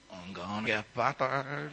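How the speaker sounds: slow, chuckling fear of a beating; laughing dread. Retold or imitated. Late kid at the door, laughing dread. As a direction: draw it out with a rueful laugh.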